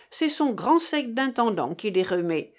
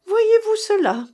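high, loud mocking exclamation; loudly scoffing; 12 semitones higher, 7 dB louder than usual. A narrator's reading. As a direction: jeer with pitch leaping up. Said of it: "avec un air moqueur".

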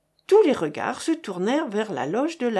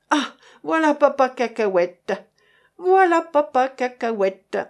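louder hail across the room; calling out; 4 semitones higher, 4 dB louder than usual. A narrator's reading. Patrons greeting the old peanut seller, calling out loudly. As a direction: call out his name from the tables. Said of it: "criait-on à diverses tables".

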